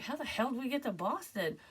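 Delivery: high, disbelieving retort; imitating her shocked self in the dream; incredulous. Dreamer stunned to learn she is in Boston, high disbelief. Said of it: "I'm like".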